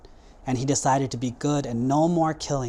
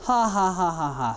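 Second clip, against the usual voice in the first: spoken ha-ha laugh, starting high and falling; mock laughter sliding down in pitch; imitated goat laugh; 4 semitones higher than usual. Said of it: "The goat started laughing".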